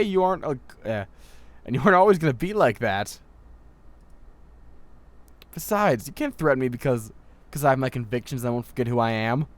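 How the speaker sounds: high, loud, heated defiance; defiant outburst. Acted. Student shouting her convictions at her mentor, high and loud. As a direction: throw it back at him, high and loud.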